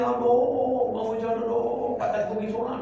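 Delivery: high, loud, drawn-out mock wail; mock crying. Preacher mocking someone who only cries over boils, mock crying. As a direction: wail comically with long stretched vowels. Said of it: "nah, ya gitu dia nangis".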